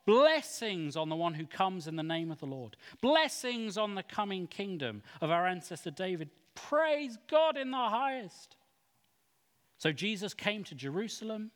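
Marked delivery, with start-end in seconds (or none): 0.0-8.6 loud, exultant acclamation; jubilant shouting. A narrator's reading. Crowd around Jesus in the procession, shouting praise. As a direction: proclaim praise to the whole street. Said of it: "the people all around him were shouting".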